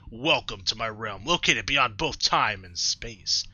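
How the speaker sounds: slow, grand godly proclamation; Arceus, godlike narrator. Acted. Player reading Arceus's greeting aloud, grand and slow. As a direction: intone it like an ancient deity.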